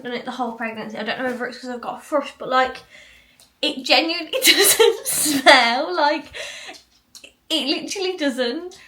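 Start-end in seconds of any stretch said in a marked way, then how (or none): 3.6-8.8 laughing through the words, higher and louder; giggling in disbelief while explaining. Real, not acted. Laughing to viewers about the dog sniffing her.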